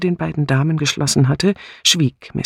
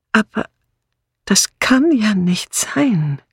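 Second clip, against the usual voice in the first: murmured; 9 semitones higher than usual. A narrator's reading. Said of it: "murmelte Miss Marple". (fassungslos gemurmelt)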